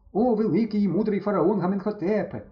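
урочисте звертання до фараона; проголоси, як жрець; урочисто. Acted. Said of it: "звів руки до сонця Стьопа". (урочисто, піднесено)

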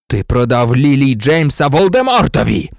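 loud, forceful accusation; angry accusation. Acted. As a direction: hurl the charge at a traitor. Black accuses the cowering traitor. (гучне гнівне звинувачення)

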